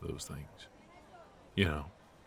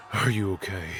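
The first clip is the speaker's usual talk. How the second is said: high tense voice, louder; urgent, pained; 3 semitones higher, 3 dB louder than usual. Acted. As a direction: push through the pain. Shot, tense aftermath.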